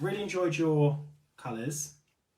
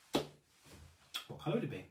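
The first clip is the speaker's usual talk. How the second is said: slow, breathy repeat of the question; whispered; 2 semitones higher, 5 dB quieter, slower than usual. Real, not acted. Host whispering her question to the live chat. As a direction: lean in and whisper it again.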